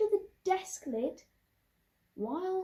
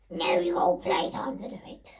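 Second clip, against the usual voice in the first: whisper; 9 semitones lower than usual. Retold or imitated. Teacher refusing.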